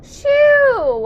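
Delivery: sharp high yell; loud shout. Real, not acted. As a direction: shoo it away loudly. Shooing something away in game.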